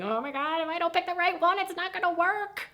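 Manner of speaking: high, anxious fretting voice; mock panic. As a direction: fret in a high worried squeak about choosing wrong.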